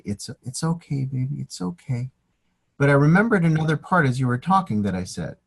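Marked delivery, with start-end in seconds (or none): 0.0-2.1 soft, tender hush to a newborn; tender soothing. Retold or imitated. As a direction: soothe your little baby softly.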